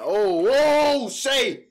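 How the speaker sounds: loud and high, caught up in the play; excited outburst. Real, not acted. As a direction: blurt it out as the play happens. Big play by Shai.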